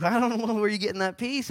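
high incredulous put-on voice; a hint of a puzzled pastor; mock skeptical pastor. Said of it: "I'm like".

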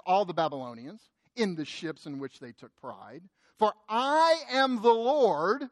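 slow, weighty Bible reading; measured solemn scripture reading. Acted. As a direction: read the verse with gravity.

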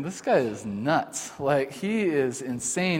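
hushed, slow "This guy is nuts"; quiet inner thought. Retold or imitated. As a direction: think it to yourself, slow and soft. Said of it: "I was just thinking".

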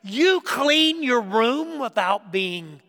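high, stunned disbelief at the tidy room; shocked parent. Pretend. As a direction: ask it like you can't believe your eyes, voice jumping up. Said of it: "you look as if you're somewhat shocked".

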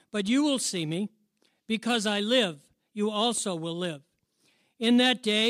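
measured, emphatic Bible reading; scripture reading. Acted. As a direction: read scripture out firmly to the congregation, pausing between phrases. Reads scripture aloud to congregation.

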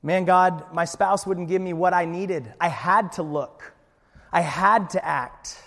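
a sinner justifying himself to God; mock complaint. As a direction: protest to God that you had no choice.

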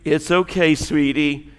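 put-on soft, soothing southern accent; southern-accented nursery lullaby, lightly imitated; soothing southern nursery worker. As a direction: comfort a child in a gentle southern lilt. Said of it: "a nursery worker who was singing to you".

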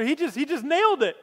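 laughing through the words. Real, not acted. Preacher delighted at Peter, laughing. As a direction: chuckle it out with delight.

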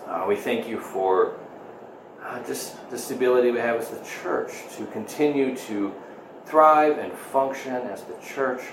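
subdued, earnest pastoral prayer; spoken prayer. Real, not acted. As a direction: lead the congregation gently in prayer. Leads congregation in prayer.

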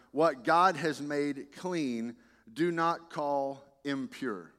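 slow, weighty divine voice; solemn, slow. Acted. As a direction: lay each word down slowly. Voice of God in reading.

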